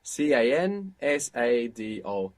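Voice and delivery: slow, letter by letter; spelled out. Shown as a demonstration. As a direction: spell out cansado one letter at a time. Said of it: "spells the word letter by letter".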